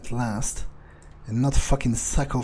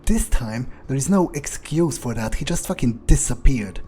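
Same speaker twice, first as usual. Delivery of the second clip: excited disbelief; 3 dB louder than usual. Real, not acted. Amazed at guard vanishing.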